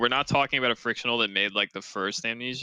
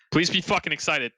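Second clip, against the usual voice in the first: higher-pitched, exasperated urging; insistent plea; 5 semitones higher than usual. Real, not acted. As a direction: demand that they share the excitement. Repeats the plea more insistently.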